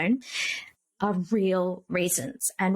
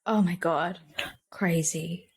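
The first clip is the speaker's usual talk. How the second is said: whispered; 3 semitones lower, slower than usual. Real, not acted. Reacting in disbelief to a story.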